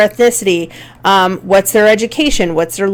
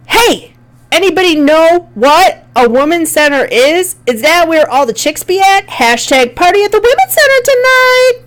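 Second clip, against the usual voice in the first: high, mocking bro voice, climbing even higher at the end; ridiculous informal voice; 8 semitones higher than usual. Shown as a demonstration. Teacher reading a silly campus post aloud in a high mocking bro voice. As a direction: ham up a silly party guy asking around. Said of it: "ridiculous way".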